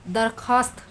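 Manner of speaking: दरख्वास्त as 'darkhaast', no w sound; silent vav. Shown as a demonstration. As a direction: drop the w after kh in दरख्वास्त. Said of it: "वह नहीं पढ़ेंगे". (दरख्वास्त में वाव बिना बोले)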